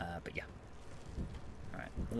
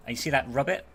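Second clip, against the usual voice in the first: put-on deep Southern accent; 3 semitones higher, 5 dB louder, faster than usual. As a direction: play the Louisiana local with a mild accent. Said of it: "quite the deep accent".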